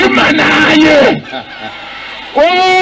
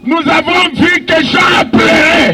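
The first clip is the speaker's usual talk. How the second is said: fervent sermon cadence, half shouted; preaching. Acted. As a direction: preach it to the crowd. Preacher in full flow.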